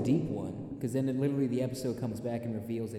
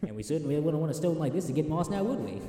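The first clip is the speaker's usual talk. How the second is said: high, slow sassy British voice; Pink Panther voice; 8 semitones higher than usual. Acted. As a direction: purr it like a smug butler. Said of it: "that's just the Pink Panther voice".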